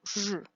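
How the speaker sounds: R with buzzing friction, close to "zh"; "zh" as a continuous buzzed R; fricative R. Shown as a demonstration. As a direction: hold a frictional R, "zh". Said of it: "it's pronounced".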